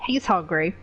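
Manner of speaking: slow, gloating villain taunt; slow theatrical villain menace. Acted. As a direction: ham up the cartoon villain. Reading villain lines aloud.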